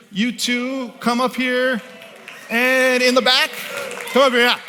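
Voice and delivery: host calling people up, loud and high. Real, not acted. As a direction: summon the volunteers from the back of the hall. Calling volunteers up onto stage.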